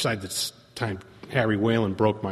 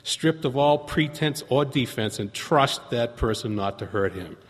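earnest reading of a pamphlet; sincere reading of a quotation; reading aloud. Shown as a demonstration. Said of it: "It says".

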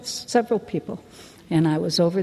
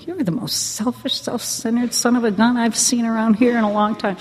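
retold scolding; 4 semitones higher than usual.

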